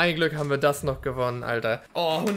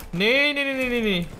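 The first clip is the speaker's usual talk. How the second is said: frustrated loud no; 6 semitones higher, 4 dB louder than usual. Real, not acted. Frustrated as enemy gets him.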